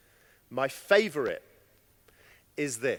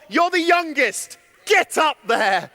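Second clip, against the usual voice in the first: bossy order; 3 semitones higher, 3 dB louder than usual. Acted. Adults pushing the youngest to present.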